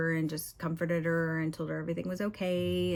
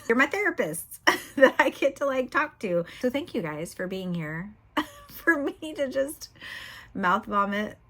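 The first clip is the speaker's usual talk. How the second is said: laughing; 5 semitones higher, 3 dB louder than usual. Real, not acted. Laughing while thanking viewers.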